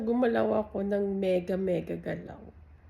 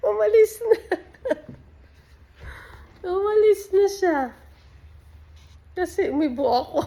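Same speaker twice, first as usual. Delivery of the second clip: real laughter, much higher and louder; laughing; 12 semitones higher, 11 dB louder than usual. Real, not acted. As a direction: crack up while telling it. Cat runs off, she bursts laughing. (natatawang malakas)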